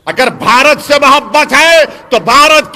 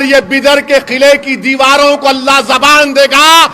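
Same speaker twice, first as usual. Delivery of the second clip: rising rally cry; 2 semitones higher, 3 dB louder than usual. Real, not acted. Orator rousing the crowd.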